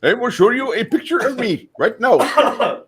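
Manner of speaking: put-on Indian accent. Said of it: "we're a bunch of racists".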